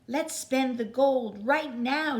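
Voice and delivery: put-on loud, high, slow eager kids' shout; children shouting. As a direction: shout it out like excited kids. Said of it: "shouted the children".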